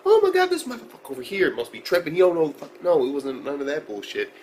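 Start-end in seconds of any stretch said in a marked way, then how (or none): 0.0-2.8 higher, louder trash-talk parody; hammed-up indignant yell; mock ignorant yelling. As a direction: act out a pointless angry rant. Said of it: "it ain't ignorant yelling".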